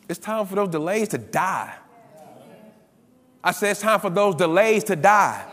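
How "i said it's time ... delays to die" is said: louder, insistent preacher's declaration; emphatic repeat. Real, not acted. Preacher repeats it to the congregation, emphatic and louder. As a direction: drive the repeat home with more force.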